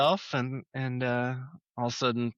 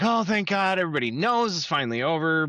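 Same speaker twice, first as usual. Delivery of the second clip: excited high relief; 5 semitones higher, faster than usual. Retold or imitated. Joey voiced, relieved.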